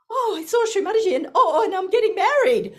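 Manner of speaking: high, fast and laughing; giddy joy. Retold or imitated. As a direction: blurt it out, bursting with happiness. Breathless joyful announcement.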